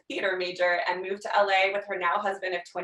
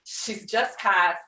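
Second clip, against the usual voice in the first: mock solemn; much slower than usual. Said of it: "It's like an obituary".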